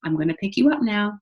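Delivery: gentle to infant. Shown as a demonstration. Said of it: "we need to be telling them".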